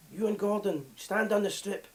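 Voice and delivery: put-on a self-admitted terrible Dutch accent; slow, drawn-out Dutch accent impression. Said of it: "the accent's terrible".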